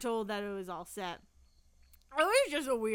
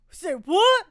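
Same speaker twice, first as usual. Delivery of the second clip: silly shout; 7 semitones higher, 13 dB louder than usual. Pretend. Mock outrage at interruption.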